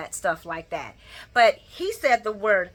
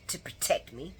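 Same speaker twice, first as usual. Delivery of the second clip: laughing quote; 6 semitones lower, 10 dB quieter than usual. Retold or imitated. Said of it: "And Carly says".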